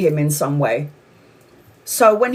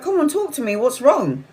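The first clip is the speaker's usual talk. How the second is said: higher-pitched, lightly acted concern; retold gentle coaxing; 6 semitones higher than usual. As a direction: gently coax him to open up. Woman coaxing sad man to open up.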